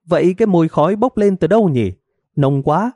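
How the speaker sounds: high, fast worried question; wife alarmed by thick smoke; anxious wife. Acted. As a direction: rush it, searching for the smoke. Wife smells smoke, hurried.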